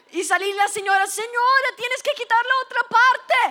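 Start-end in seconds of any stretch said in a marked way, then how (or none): 1.1-3.4 acted urgent calling. Waxer calls after fleeing girl.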